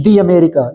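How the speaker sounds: दी said as "dee" before America; model pronunciation. Shown as a demonstration. Teacher to students, modelling the "dee" sound. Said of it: "इसको दी पढ़ेंगे, दा नहीं पढ़ेंगे".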